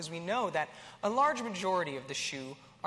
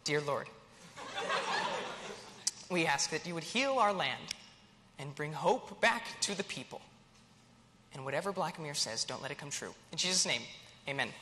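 measured, slightly lowered praying voice; mock prayer; 3 semitones lower, 3 dB quieter than usual. Host praying for the land after dark news, mock solemn. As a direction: pray earnestly for comic effect, pausing between phrases.

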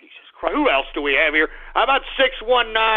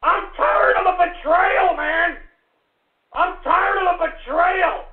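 betrayed rant; 6 semitones higher than usual. Acted. Ranting about betrayal.

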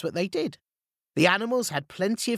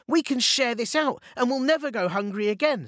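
higher, excited hero voice; 8 semitones higher than usual. A narrator's reading. Peach Boy on the gold heaps, excited. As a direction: cheer over the treasure. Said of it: "running up and down".

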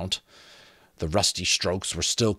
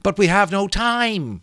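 high, urgent plea; Molly begging the skull to hurry; pleading; 13 semitones higher, 6 dB louder than usual. A narrator's reading. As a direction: beg for time, desperate. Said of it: "Molly pleaded".

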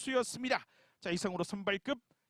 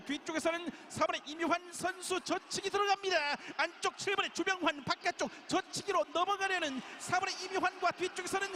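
excited race call; 5 semitones higher than usual. Real, not acted. Finish of a keirin race call.

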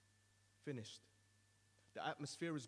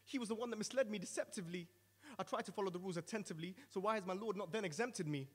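frantic plea; 4 semitones higher, 3 dB louder than usual. Acted. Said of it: "I attempt to plea".

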